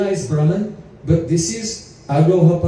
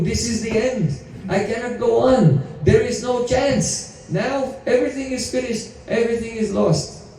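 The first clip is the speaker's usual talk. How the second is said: despairing elephant; 4 semitones higher, 3 dB quieter than usual. Retold or imitated. Gajendra's despair at the end.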